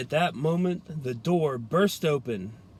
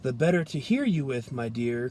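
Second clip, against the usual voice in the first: croaking wolf; 2 semitones lower than usual. Acted. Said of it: "croaked the wolf".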